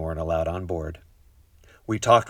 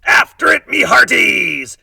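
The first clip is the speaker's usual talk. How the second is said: very loud, high, slow shout; rally the crew after the ball; pirate rallying cry; 13 semitones higher, 11 dB louder, slower than usual. A narrator's reading. Captain urging the crew after the ball, loud slow cry. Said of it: "and it rolled right off the deck".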